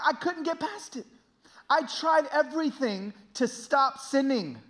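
high, forceful testimony with stretched key words; impassioned preaching. Real, not acted. Preacher confessing anger at God to his congregation, impassioned. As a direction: pour out the anguish to the congregation.

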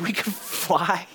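slow, imitated awe; fired-up son. Son marvelling to dad about brain powers, awed excitement. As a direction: draw out the kid's wonder. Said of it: "He was so fired up".

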